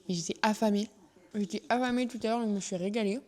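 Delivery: talking through a mouthful of food; chewing while she speaks; mouth full. Real, not acted. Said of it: "parler la bouche pleine". (la bouche pleine en mâchant)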